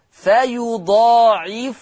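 slow recited فيضاعفه as fa-yudaa'ifu-hu; drawn-out Warsh فيضاعفه; damma on fa. Shown as a demonstration. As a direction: round the last fa of فيضاعفه into "fu". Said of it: "بضم الفاء".

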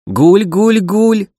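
high, far-off eerie cooing call; pigeon cooing cry. Acted. Monster pigeons calling from afar, eerie high cooing. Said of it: "донеслись мерзкие звуки".

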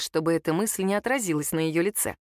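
usual speaking voice

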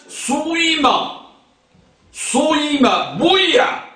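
صويم and بويع with the first vowel between u and i, a rounded i; ishmam demo. Shown as a demonstration. Teacher showing students how ishmam sounds, carefully sounded. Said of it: "تقول مثلًا".

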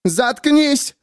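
high angry shriek; furious shut up. A narrator's reading. Miriam screaming at the narrator, high angry. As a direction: silence him with rage. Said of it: "выкрикнула Мириам".

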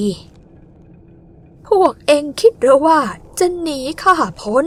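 high, very slow, loud demon voice; distorted monster voice. Acted. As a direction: drag each word out like a ghoul. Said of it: "เสียงพูดของมนุษย์ออกจากปากเจ้าสางดง". (เสียงปีศาจแหบบิดเบี้ยว ลากยาว)

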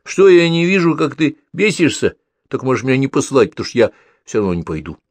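high, loud cheeky little brother; cheeky kid. A narrator's reading. Pavlik cockily refuses his brother, high kid voice. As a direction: refuse him with a cocky kid voice.

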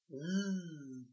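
mild offended buzzing; offended bee buzzing at the puppy. Acted. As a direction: buzz like an angry bee. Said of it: "прожужжала обиженная пчела".

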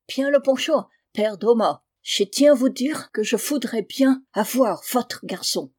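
thick German accent, French words softened and devoiced. German recruiter coaxing father Thomas, in a thick German accent. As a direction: play a German gentleman bargaining in heavy German-accented French.

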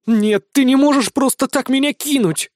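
high, loud desperate pleading. A narrator's reading. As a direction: beg him not to leave her. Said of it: "взмолилась Эстера". (отчаянная мольба, выше и громче)

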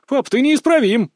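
high-pitched teasing reproach; mock exasperation. Son chiding father over a gift, mock-exasperated. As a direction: scold fondly with pitch jumping up.

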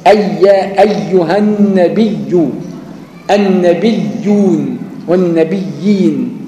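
أيها النبي drawn out very slowly; slow Quranic recitation of النبيون والنبيين; slow recitation demo. Shown as a demonstration. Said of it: "شوف إزاي".

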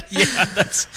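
laughing mid-sentence; breaking into laughter. Real, not acted. Laughs at caller's reply.

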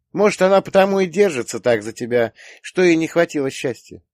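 put-on high, loud girlish reasoning; earnest daughter. A narrator's reading. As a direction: explain it to dad in a high voice. Daughter reasons with her father. (рассудительная дочь, высоким голосом)

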